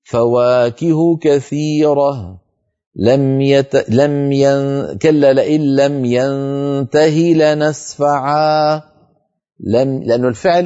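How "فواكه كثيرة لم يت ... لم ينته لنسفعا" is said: ترتيل; Quranic recitation. Shown as a demonstration. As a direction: recite the verse in a slow measured chant. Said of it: "أمثلة".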